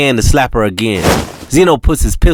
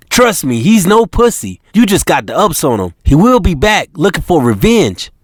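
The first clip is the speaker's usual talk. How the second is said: serious warning; 6 semitones higher than usual. Acted. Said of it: "China is serious".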